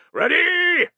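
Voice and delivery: brace them for the throw; cried command. Acted. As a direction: commander crying the order to ready. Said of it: "cried Caedicius".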